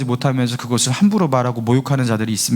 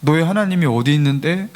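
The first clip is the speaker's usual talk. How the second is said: lightly acted mockery of a believer; imitating a scoffer's jeer; mocking. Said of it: "하면서 조롱하는 거예요".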